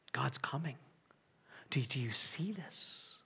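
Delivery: soft awed voice of Elihu; hushed Elihu. Retold or imitated. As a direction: hush as God approaches. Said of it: "Elihu's looking at it going".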